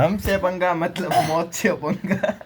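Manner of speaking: hammed-up Bollywood threat, drawn out; filmy villain line. Joking with friends, a hammed-up filmy villain line.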